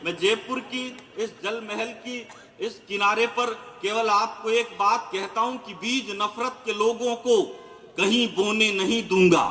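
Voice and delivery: a touch of stage poetry; poetic recitation. Acted. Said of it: "दो लाइनों में मैंने अच्छी बात कही है".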